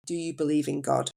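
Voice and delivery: softly soothing, lightly voiced Indian accent; gentle hint of an Indian accent. Nurse at a patient's bedside asking about faith, soothing Indian accent. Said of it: "soft and soothing Indian accent".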